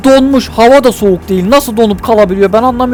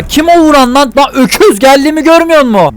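higher, heated challenge; indignant yell; 5 semitones higher than usual. Acted. Driver scolds whoever just bumped his car, indignant. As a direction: call out the culprit, pitched up.

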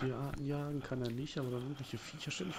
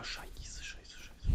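whispering; much slower than usual. Real, not acted. Hushed cursing while hunting.

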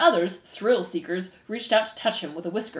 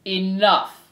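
loud, authoritative order; commanding; 7 dB louder than usual. Acted. Head mouse halts the shouting crowd, commanding. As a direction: cut off the crowd firmly.

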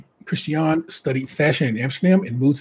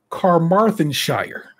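Carmarthenshire said again, slowly but less drawn out; slow repeat; 2 semitones higher, much slower than usual. Shown as a demonstration. Host repeating the Welsh place name slowly, easing up. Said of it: "watch for this one".

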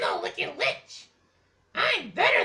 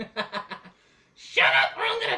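laughing witch yell; cackling threat; 2 semitones higher, 4 dB louder than usual. Acted.

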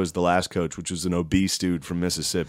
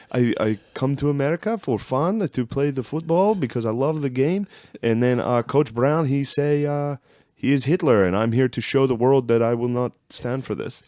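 higher-pitched mock German accent; imitated German exchange student; 5 semitones higher than usual. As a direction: put on an earnest, halting German accent. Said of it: "the exchange student was like".

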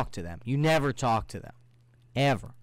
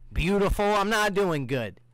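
sarcastic answer to the flirty greeting; mock sweet reply; 5 semitones higher, 4 dB louder than usual. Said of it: "I'ma say".

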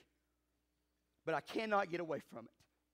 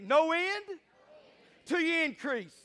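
high, loud rallying proclamation; like you mean it; 8 semitones higher, 8 dB louder than usual. Shown as a demonstration. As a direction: declare it with conviction, pitch raised. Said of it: "Say it like you mean it".

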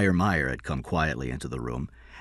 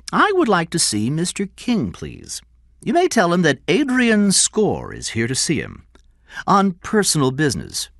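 oily businessman Score; 11 semitones higher, 3 dB louder than usual. Acted. Score asks the assistant to see Mister King, high insistent voice.

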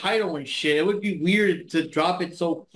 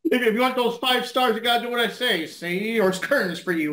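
mock mobster; 4 semitones higher than usual. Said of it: "like a nineteen forties mobster".

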